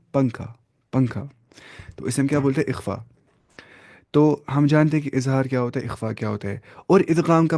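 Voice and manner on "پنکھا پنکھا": پنکھا with the n hidden in the nose; nasal ng example. Shown as a demonstration. Teacher demonstrating ikhfa with پنکھا, nasal ŋ. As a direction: say پنکھا with a nasal ŋ, no tongue tip.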